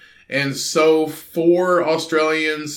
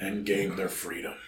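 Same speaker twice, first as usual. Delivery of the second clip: attempted Australian accent; 8 semitones lower, 14 dB quieter than usual. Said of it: "I can't do an Australian accent".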